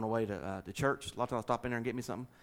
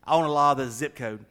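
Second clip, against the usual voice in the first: loud, insistent retold line; louder, emphatic clarification; emphatic repeat; 2 semitones higher, 8 dB louder than usual.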